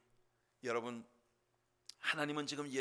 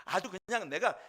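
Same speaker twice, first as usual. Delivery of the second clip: louder, higher mock fury at a rival; jealous anger; 9 semitones higher, 9 dB louder than usual. Hannah cursing her rival in jealousy, hammed-up rage. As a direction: spit it out like a jealous wife. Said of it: "한나가 화가 나는 거예요".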